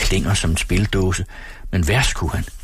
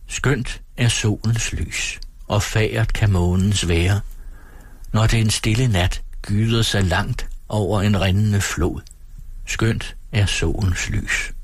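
slow, softened verse recitation; sangtekst læst op; slower than usual. A narrator's reading. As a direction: recite the song slowly, lingering on each line. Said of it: "Hun sang". (langsom, dæmpet oplæsning af sangvers)

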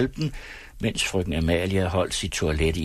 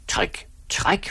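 jealous challenge; 9 semitones higher than usual. A narrator's reading. Drunk challenges friend to duel.

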